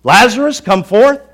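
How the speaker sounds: loud, sing-song mock of the command; a scoffer parroting the call; a skeptic in the crowd loudly mocking the call; mocking shout. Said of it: "Some probably thought, "He's losing it".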